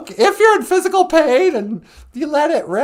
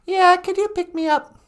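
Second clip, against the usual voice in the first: acted caller; 4 semitones higher than usual. Acted caller asking for pickup.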